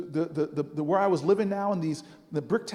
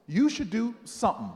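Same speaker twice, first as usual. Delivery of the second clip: measured, teasing reveal; deliberate punchline. Retold or imitated. Miss Jones finally revealing her advice, deliberate. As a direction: hold back the last word for suspense.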